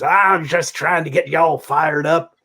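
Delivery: slow, lightly voiced rocker; a hint of Mojo easing the fan; imitating Mojo. Mojo explains the heckling, in a light slow voice. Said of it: "And he goes".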